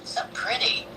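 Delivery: whispered, admiring. Real, not acted. Admiring a streamer's looks, whispered compliment. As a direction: breathe it out in a whisper.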